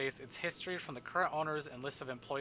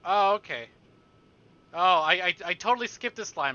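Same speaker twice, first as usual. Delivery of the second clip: surprised; 4 semitones higher, 10 dB louder than usual. Real, not acted. Surprised at skipped line.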